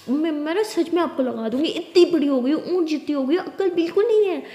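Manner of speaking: mild telling-off, climbing in pitch; scolding. Acted. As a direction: nag her with rising exasperation. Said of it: "डांटती रहोगी". (हल्के गुस्से में डांटते हुए)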